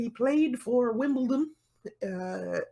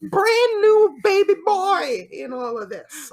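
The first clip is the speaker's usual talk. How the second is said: mock amazement; 3 semitones higher, 8 dB louder than usual. Mock amazement at co-host's inexperience.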